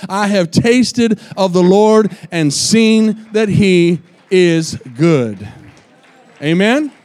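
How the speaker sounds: loud rousing appeal; loud preaching. Acted. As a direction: stir the congregation. Preaching at full force.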